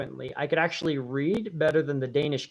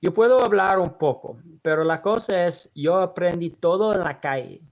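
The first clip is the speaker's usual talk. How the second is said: speaking Spanish; 5 dB louder than usual. Real, not acted. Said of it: "people want me to speak Spanish".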